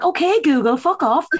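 mock fed-up dismissal; mock annoyed. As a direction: tell the phone to get lost, half joking.

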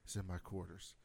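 lightly voiced deathbed confession; dying whisper. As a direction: drop to a faint last-breath murmur. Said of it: "he goes".

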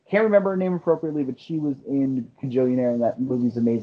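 talking with a mouthful of food; words pushed around a bite; mouth full. Real, not acted. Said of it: "Your mouth full again".

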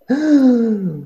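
long, high mock gasp; hammed-up intake of shock; acted shocked gasp. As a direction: gasp as if bad news just hit. Acted shock at bad news.

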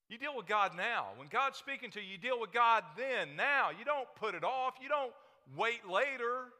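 loud, high call to act now; urgent preaching. Acted. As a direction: drive it home, rising and pressing. Urging the youth to act now.

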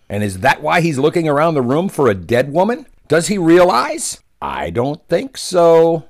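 信じられないという調子で問い詰める; 皮肉たっぷりに声を張る; mock incredulity. Real, not acted. Mocking the press secretary.

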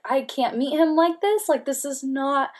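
high-pitched pleading, no real tears; retold distressed protest. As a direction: relive an upset protest. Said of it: "I'm just, like, sobbing".

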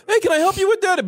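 high, sugary offer of help; lightly mocking helpful voice; mock friendly hippie. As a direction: play the overly friendly Austin hippie. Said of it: "they're all".

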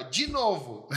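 high-pitched imitation of an eager child; child's request. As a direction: lightly mimic a little girl asking. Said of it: "e daí ela". (imitando criança pedindo)

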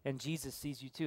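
a soft, low voice in a dark house; very quiet voice. A narrator's reading. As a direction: say it quietly, like someone hidden watching. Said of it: "the parrot looks at him in the eyes and says".

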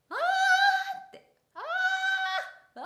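chin up, throat-squeezed high "ah"; strained high shout. Shown as a demonstration. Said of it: "顎が上がったり、体がね、上に上がる".

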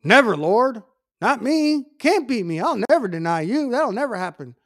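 voicing Peter, lightly, swearing he'd never deny; Peter protesting. Peter to Jesus, lightly voiced earnest protest. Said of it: "Peter said that".

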